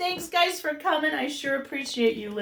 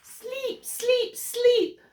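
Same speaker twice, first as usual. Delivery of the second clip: tired babies; 12 semitones higher, much slower than usual. Acted. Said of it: "the tired babies finally whispered".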